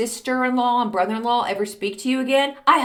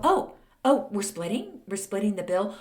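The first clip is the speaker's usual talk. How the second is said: mock surprise; 4 dB quieter than usual. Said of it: "they act surprised".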